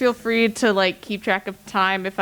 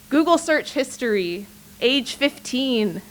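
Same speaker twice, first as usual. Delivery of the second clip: higher-pitched spoken-word opening with deliberate pauses; poem recital; 5 semitones higher than usual. Acted. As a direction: announce each line as poetry. Begins reciting next poem.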